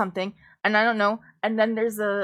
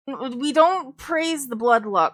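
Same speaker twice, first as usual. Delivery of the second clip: put-on Appalachian accent; 4 semitones higher, 5 dB louder than usual. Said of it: "I put on my Appalachian for you".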